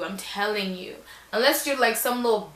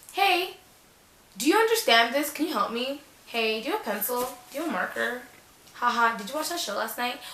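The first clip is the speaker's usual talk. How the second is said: playful flirty act; 3 semitones higher than usual. Pretend. Acting flirty questions to classmate.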